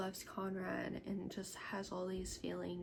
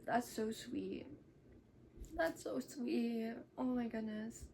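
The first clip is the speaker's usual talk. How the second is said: touched gushing; 3 semitones higher than usual. Real, not acted. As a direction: coo over how sweet it is. Gushes over the retold scene.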